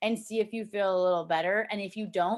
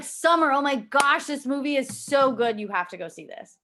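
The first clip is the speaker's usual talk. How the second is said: excited pitch; 4 semitones higher, 3 dB louder than usual. Shown as a demonstration. Urging Summer to see a movie, gushing with excitement. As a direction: sell it with real enthusiasm. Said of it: "I bet she's gonna be interested".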